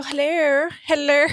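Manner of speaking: lilting hello; sing-song phone greeting. Shown as a demonstration. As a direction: answer the phone brightly. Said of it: "Now I just go".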